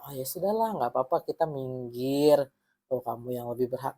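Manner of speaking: acted meek giving-in; softening, sinking mock surrender; mock resignation. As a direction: pretend to step aside without a fight. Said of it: "kamu cuma diem aja".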